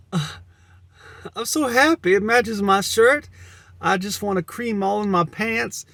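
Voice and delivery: put-on high, loud, giddy girly voice. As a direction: squeal it like a delighted girl. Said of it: "I've already changed my voice".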